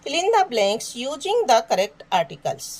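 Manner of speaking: very slow, word by word; slow dictation. Shown as a demonstration. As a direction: read the task slowly. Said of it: "reads instruction aloud".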